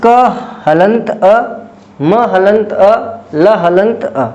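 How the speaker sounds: slow, careful recap of the parts; slow spelling out. Shown as a demonstration. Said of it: "तो क्या तोड़ के बना?". (धीरे-धीरे दोहराना)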